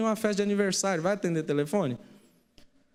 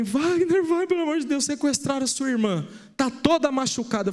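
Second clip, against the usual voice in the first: frantic mother; 6 semitones higher than usual. Retold or imitated. Mother begging at the door.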